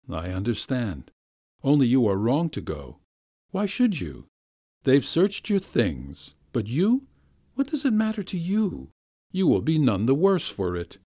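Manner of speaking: a hint of a pleading gentleman, rising; lightly voiced master. Gentleman urging the offended governess not to leave, lightly pleading. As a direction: coax her gently to stay.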